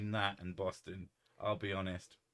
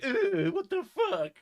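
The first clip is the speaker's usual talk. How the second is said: mock disgust; 8 dB louder, slower than usual. Real, not acted. Reacting to microfiber shirt.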